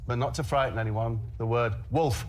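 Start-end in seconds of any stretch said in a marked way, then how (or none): 1.4-2.3 loud. Shown as a demonstration. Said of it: "and then quite loudly".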